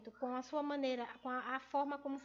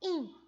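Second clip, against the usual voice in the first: a loud, isolated IN; stressed syllable; 3 semitones higher, 5 dB louder than usual. Shown as a demonstration. Teacher isolating the tonic syllable of ruim, punched IN. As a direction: punch in on its own. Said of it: "a sílaba tônica dela está no".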